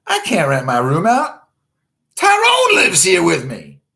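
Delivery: high, loud, slow put-on voice; mock high reply. Host replying to a pushy fan, high and mocking. Reading his reply aloud.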